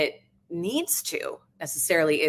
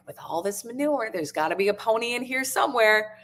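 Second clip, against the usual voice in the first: higher, lightly acted delight; mild excitement, pitched up; retold joyful excitement; 5 semitones higher than usual. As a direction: play an eagerly hopeful child, without shrieking. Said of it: "she shrieks with joy".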